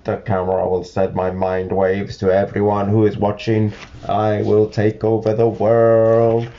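monotone villain, drawing out the last words; storybook villain. Acted. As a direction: intone it like a mind-controlling villain. Villain announcing world domination.

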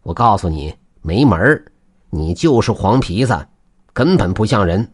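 put-on gloating old man, firmly refusing; scoff, then turn them down with relish; a touch of smug triumph; smug chuckle. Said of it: "得意地笑了".

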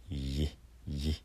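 "イエ" glided from イ into エ; 発音の手本. Shown as a demonstration. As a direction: demonstrate "イエ", each one short and separate. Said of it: "て感じですけどもね". (「イエ」をイからエへ滑らせて手本)

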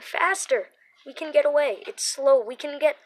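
loud, high panicked urging; frantic shouting. A narrator's reading. Donnie urging Becca on as they flee. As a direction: push her on, voice straining. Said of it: "Donnie cried".

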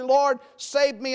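slow, simple cry for help; simple plea. Retold or imitated. Peter sinking, simply asking the Lord to save him, slow plea. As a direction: say it plainly and slowly, just asking. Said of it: "he cries out simply".

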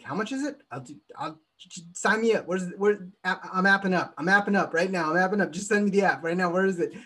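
mock-frantic customer rushing to sign up; eager buyer. An audience member begging the presenter to sign him up, eager.

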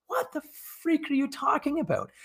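high-pitched, softly squealed mock disbelief; mock incredulous. Man retelling his reaction to a date's rude comment, mock incredulous. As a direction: act out baffled outrage in a high, put-on voice.

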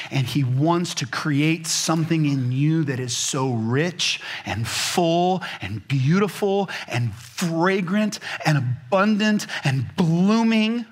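slow, rising impassioned preaching; preaching climax. Acted. Preacher closing the sermon with rising passion. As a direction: build it up word by word.

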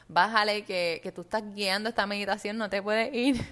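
loud sharp self-reminder to rein it in; self-scolding. Retold or imitated. Leader scolding herself during meditation, loudly. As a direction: snap at yourself to stop drifting.

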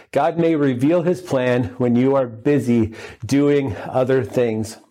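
slowed right down for emphasis. Shown as a demonstration. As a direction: repeat the point slowly so it sinks in. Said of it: "Number one".

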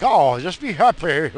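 high, loud sing-song mock cheer; sarcastic bright "just be happy"; mocking chirpy voice. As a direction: toss off fake cheerfulness. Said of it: "we can't just expect people to be like".

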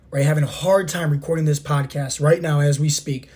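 hoarse, sore-throat voice; talking through a scratchy throat. Real, not acted. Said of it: "scratchy voice and all".

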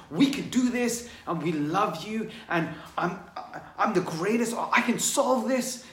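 high, loud, fired-up affirmations; pumped self-talk. Retold or imitated. Speaker voicing empowering thoughts to the audience, high and loud. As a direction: cheer yourself on like you believe it.

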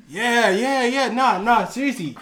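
agitated re-enacted pleading; retold insistence. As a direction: insist as if nobody believes you. Insisting to cousins in retold scene.

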